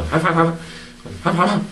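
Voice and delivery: imitated gossipers' chuckle; put-on "ha ha ha" laugh; mock laugh. Preacher mimicking people who backbite others, mock laughing.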